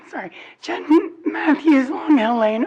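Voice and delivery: hoarse, barely-there voice from a cold; lost voice. Real, not acted. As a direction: talk through a raw, croaky throat. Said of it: "Oh my God, I have no voice".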